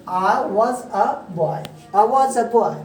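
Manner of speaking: British-style demo, words spaced slowly then joined. Shown as a demonstration. Teacher shows students British style, British-style demo. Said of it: "British style में क्या हुआ".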